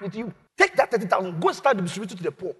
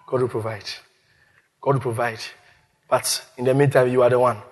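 much lower, sly and teasing; sly deep voice; 8 semitones lower than usual. Acted. Abraham slyly telling Isaac he is the sacrifice. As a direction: drop low and calm, with a sly twist. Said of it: "He said".

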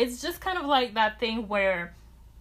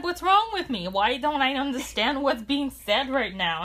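mock panicked confusion; 4 semitones higher than usual. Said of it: "Or just like".

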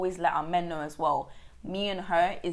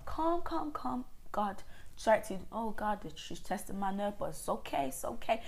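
self-calming; 7 dB quieter than usual. Retold or imitated. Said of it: "mental thing in my head that I'm like".

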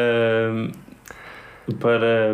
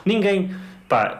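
stretched out high in disbelief; drawn-out indignant cry; exasperated outburst; 8 semitones higher, much slower than usual. Real, not acted. Outraged rant.

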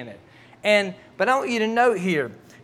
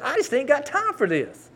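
frustrated fussing; 8 semitones higher than usual. Retold or imitated. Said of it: "I'm just fussing".

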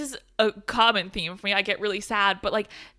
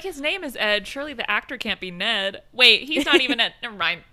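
laughing confusion. Retold or imitated. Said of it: "I'm like".

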